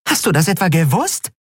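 vorwurfsvoll, panisch, höher; halb Vorwurf, halb Panik. A narrator's reading. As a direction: werfe es ihr panisch vor. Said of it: "halb Vorwurf, halb nackte Panik". (Nelen wirft Endriel panisch vor, es gewusst zu haben)

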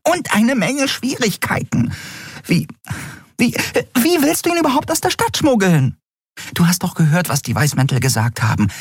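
hohe, aufgeregte Frauenstimme; hoch und empört, fassungslos; aufgebrachte Freundin. Acted. Nelen voiced high. (hohe, empörte Stimme der Freundin)

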